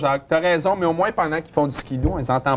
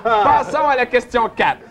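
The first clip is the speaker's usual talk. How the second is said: slow, high, through laughter; slowed-down call with laughter in it; laughing announcement; 7 semitones higher than usual. Real, not acted. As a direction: move on while cracking up. Host cracks up, moves on.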